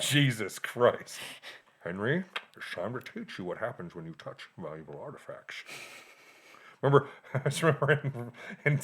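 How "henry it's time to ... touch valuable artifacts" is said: low, quiet menacing father; stern father voice. Pretend. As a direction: scold like a cold, stern dad. Mock stern father scolding son.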